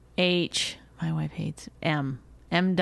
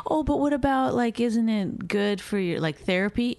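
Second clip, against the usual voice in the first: mock other people; 5 semitones higher than usual. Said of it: "would say".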